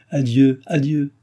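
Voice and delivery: light smiling goodbye, lifted in pitch; cheerful royal leave-taking; smiling farewell. A narrator's reading. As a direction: call the farewell with a smile. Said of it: "avec un sourire".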